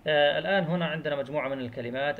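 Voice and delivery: ordinary talk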